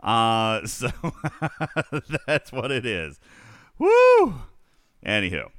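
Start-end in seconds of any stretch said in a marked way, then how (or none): 3.8-4.3 high, loud "woo"; sudden high-pitched holler; loud whoop. Real, not acted. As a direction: let out a piercing whoop. Whoops after laughing.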